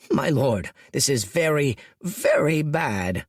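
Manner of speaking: lieutenant desperately pleads, voice cracking. A narrator's reading. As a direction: beg the lord, voice breaking. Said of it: "desperate cracking in Spiketail's voice".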